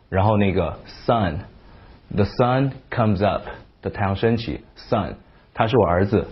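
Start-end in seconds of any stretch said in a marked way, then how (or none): 1.1-3.4 the sun comes up, slow, sun with short uh; slow drill. Shown as a demonstration. Teacher practising sun in a phrase. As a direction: say sun slowly in a sentence. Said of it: "我们来练几个".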